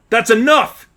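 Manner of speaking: high, loud cry to stop; shout. Acted. Jill and Tracy yelling at the attacker, loud shout. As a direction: yell out in protest. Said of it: "both shouted".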